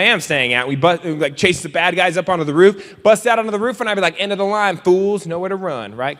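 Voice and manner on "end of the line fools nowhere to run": a hint of tough hero swagger; lightly voiced action-hero line; superhero talk. Speaker as superhero cornering the bad guys, mock tough. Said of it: "you can talk like that when you have superpowers".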